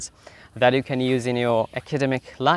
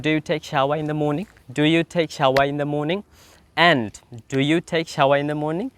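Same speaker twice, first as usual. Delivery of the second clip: slow drill questions; much slower than usual. Shown as a demonstration. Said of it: "কথা বলতে হবে".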